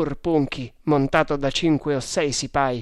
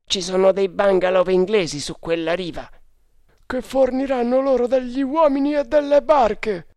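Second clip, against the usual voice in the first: high-pitched report, rising higher and louder; urgent warning; 8 semitones higher, 4 dB louder than usual. A narrator's reading. Tugs telling their leader of enemy bungalows, urgent climbing voice. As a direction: press the danger, pitch climbing. Two Tugs warn of danger.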